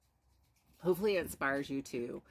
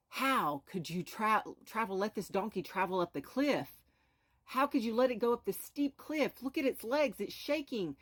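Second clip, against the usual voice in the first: higher, rising outrage at the father; indignant scolding; 4 semitones higher than usual. Retold or imitated. Strangers on the cliff berating the father, higher indignant scolding. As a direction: scold him for the poor donkey, pitch climbing.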